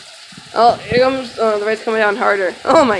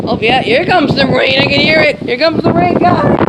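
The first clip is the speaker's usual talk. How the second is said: excited, higher and louder over the wind; shouting over wind; 4 semitones higher, 4 dB louder than usual. Real, not acted. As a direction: call out over the storm noise. Rain arrives, wind blowing.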